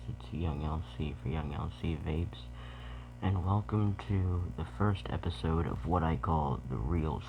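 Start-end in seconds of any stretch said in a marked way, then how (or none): 0.1-2.4 whisper. Real, not acted. Whispered channel intro.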